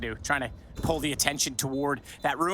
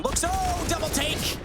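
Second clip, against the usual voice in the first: surprised; 13 semitones higher, slower than usual. Real, not acted. Caster reacts to surprise shot.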